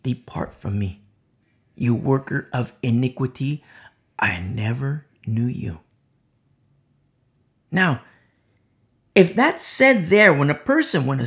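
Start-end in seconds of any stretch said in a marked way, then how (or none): 0.0-5.8 low, hushed words of judgment; a hushed, solemn verdict; dreadful judgment. Acted. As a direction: deliver the sentence low and grave, fading to a whisper. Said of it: "hear the dreadful words".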